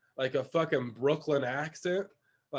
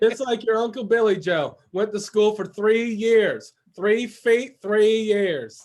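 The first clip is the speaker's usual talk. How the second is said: mock Southern; 3 semitones higher, 5 dB louder, slower than usual. Mock Southern relative joke.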